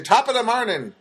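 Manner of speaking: a quick stock Irish greeting, half-hearted; Irish impression. Mocking how people do Irish impressions, light Irish accent. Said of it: "when people do Irish impressions".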